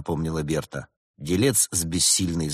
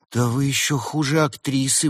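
higher, indignant outburst; 7 semitones higher, 3 dB louder than usual. A narrator's reading. Woman in love rebukes the doctor, indignant. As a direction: protest in raised pitch, affronted. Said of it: "возмутилась влюблённая".

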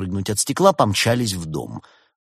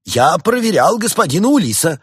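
high, loud sudden claim; bluffing doctor; quick-witted bluff; 10 semitones higher, 8 dB louder than usual. A narrator's reading. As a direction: blurt a saving excuse triumphantly. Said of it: "нашёлся доктор".

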